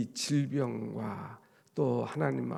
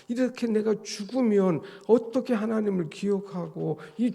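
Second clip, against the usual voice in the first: louder urgent cry; fearful plea; 4 semitones higher, 4 dB louder than usual. Retold or imitated. Preacher voices David afraid of dying, loud urgent plea. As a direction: beg God to spare his life. Voicing David's fear of death.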